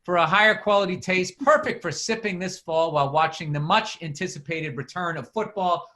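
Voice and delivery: lightly announced product copy; mildly punchy podcast ad delivery; sponsor ad read. Acted. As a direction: read out the flavors like a casual pitchman.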